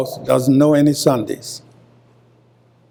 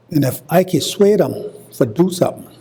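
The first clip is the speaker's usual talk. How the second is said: Gullah phrasing; 3 semitones higher, faster than usual. Shown as a demonstration. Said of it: "that's what we say in Gullah".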